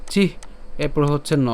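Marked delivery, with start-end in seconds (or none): 0.1-0.3 "চিহ" as chi with final h; "চিহ" cut off after the হ; syllable demonstration. Shown as a demonstration. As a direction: say "চিহ", sounding the h separately. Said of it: "এর উচ্চারণ কেমন হবে".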